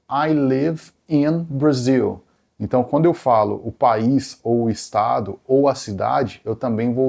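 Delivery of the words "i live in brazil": slow, careful English example; slow example read. Shown as a demonstration. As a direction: spell it out slowly for learners. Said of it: "por exemplo". (leitura lenta e didática)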